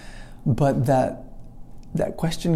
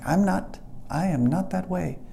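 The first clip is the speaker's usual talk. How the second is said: higher-pitched retold protest; contentious; 6 semitones higher, 3 dB quieter than usual. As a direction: push back, imitating your stubborn self. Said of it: "a little contentious at times".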